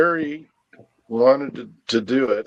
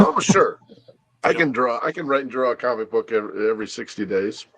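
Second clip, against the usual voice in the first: sarcastic. Retold or imitated. Sarcastic retold reply to publisher.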